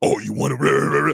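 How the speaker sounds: angry, deep, dropped voice. Telling how his wife talks to him, he is imitating wife's mad deep voice. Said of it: "She always gets mad deep with him".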